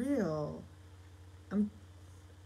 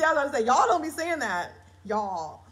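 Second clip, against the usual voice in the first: laughing; 6 semitones higher, 8 dB louder than usual. Real, not acted. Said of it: "I mean, laughs, see".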